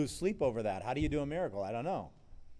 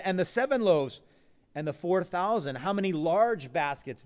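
louder, raised questioning as Jesus; voicing Jesus; 4 semitones higher, 6 dB louder than usual. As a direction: press the disciples with the count, louder.

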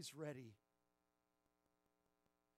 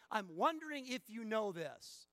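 mock wondering; 5 semitones higher, 7 dB louder than usual. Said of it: "Paul is not saying".

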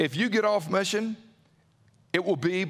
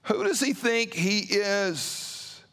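skeptical disciples; slower than usual. Retold or imitated. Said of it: "they're probably thinking".

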